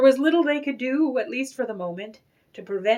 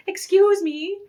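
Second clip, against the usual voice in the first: anxious plea; 10 semitones higher, 5 dB louder than usual. A narrator's reading. Frantic mother asks salesman.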